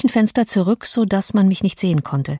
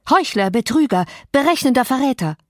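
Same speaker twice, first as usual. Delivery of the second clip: a mild raised cry of outrage; indignant outcry; 5 semitones higher than usual. Acted. The housekeeper, watching from the kitchen window, in a mild raised outburst. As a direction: spit the names out, rising in indignation. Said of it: "rief ich".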